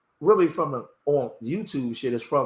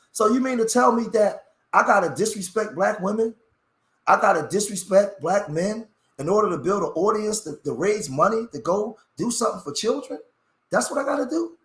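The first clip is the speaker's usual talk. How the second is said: emotional frustration; 7 semitones higher than usual. Real, not acted. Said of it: "you get emotional because you get frustrated".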